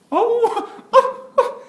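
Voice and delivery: high, loud, slow laughing howl; howling puppy. Retold or imitated. Pastor acting the puppy howling to music, high laughing howl. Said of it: "그가 어떻게 견디겠습니까".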